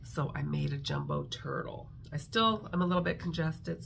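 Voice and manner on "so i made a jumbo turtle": blocked nose. Real, not acted. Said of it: "that's probably why I sound funny".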